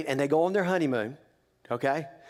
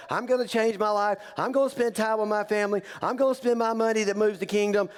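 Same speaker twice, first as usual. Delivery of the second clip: mock resolution speech; 5 semitones higher than usual. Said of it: "enough speeches from us to say".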